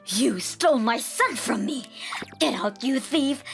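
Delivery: lightly voiced furious mother-in-law; mild accusing yell. Mother-in-law accusing her daughter-in-law, mild yell. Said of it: "She was yelling".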